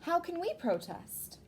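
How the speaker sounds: put-on high, young child voice; child's question. The child asks the parents how they can protest, in a high childlike voice. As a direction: ask it like an eager little kid.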